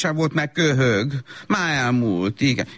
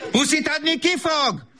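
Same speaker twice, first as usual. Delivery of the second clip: very high squealing hello, then cooing pet names; gushing baby talk; 5 semitones higher than usual. Acted. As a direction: smother the child in sugary baby talk. Mother greets child at nursery. (nagyon magas, áradozó gügyögés)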